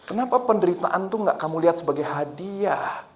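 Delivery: quiet question from an inner voice; gentle, unhurried imitation of God. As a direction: ask it softly, like a voice in the heart. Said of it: "di hati saya ada begini".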